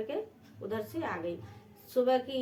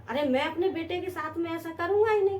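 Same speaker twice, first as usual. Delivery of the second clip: higher, quick storyteller's voicing of an indignant denial; emphatic protest; 6 semitones higher, 4 dB louder, faster than usual. A narrator's reading. Husband rejects wife's warning about his own son, protesting emphatically. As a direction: brush the warning off in a raised, hurried voice.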